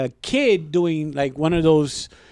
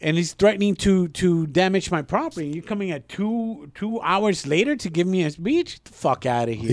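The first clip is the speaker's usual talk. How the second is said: worked-up retold rant, higher then dropping on the dismissal; retold angry outburst; 4 semitones higher than usual. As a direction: replay the indignant telling-off. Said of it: "that's when I fucking lost it".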